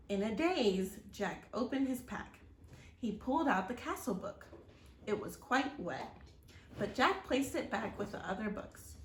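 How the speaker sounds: steady, expressive read-aloud storytelling; story narration. A narrator's reading. Reading a storybook aloud to children, expressive narration. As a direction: tell the chapter to young listeners.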